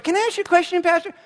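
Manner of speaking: high, lightly voiced questioner; high-voiced polite request; timid shopper asking. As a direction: pitch it up as someone approaching the pastor. Voices shopper approaching the pastor.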